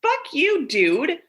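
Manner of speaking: high-pitched, indignant comeback through amusement; mock outrage. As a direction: squeal the insult, then drop down. Mock outrage at brother's joke.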